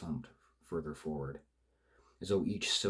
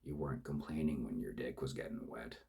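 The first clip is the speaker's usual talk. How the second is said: slightly lower, lightly voiced purr; rough purr; 3 semitones lower than usual. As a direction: killer purring a taunt at his partner. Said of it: "the rough tones nearly a purr".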